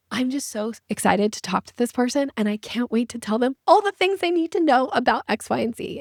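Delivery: mock over-excited pitch; lightly hammed-up eagerness; overeager gush. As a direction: gush like you can't wait to tell. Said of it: "We're like".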